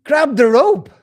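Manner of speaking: loud, high call down the well; loud mock shout. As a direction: bark the order down to him. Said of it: "the person shouts down".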